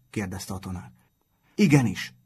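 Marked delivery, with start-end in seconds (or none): 1.6-2.1 loud, higher group shout; loud eager shout of yes; shouted together. A narrator's reading. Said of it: "kiáltották négyen".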